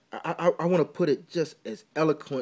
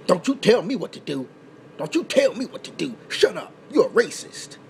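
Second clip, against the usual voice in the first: higher, indignant retort that cuts the critic off; mock defensive snap; 4 semitones higher than usual. Vlogger imitates people rejecting criticism, mock indignant. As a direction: bristle and shove the criticism away.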